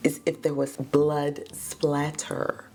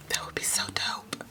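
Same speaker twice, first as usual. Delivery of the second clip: soft whispered excitement; hushed aside; 6 dB quieter than usual. Real, not acted. Telling viewers her theory, excited whisper. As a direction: confide it softly.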